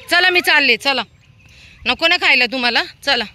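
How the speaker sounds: high, loud call to the dogs; urgent high call to come back. Real, not acted. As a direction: shout them back to you. Calling dogs back from stranger.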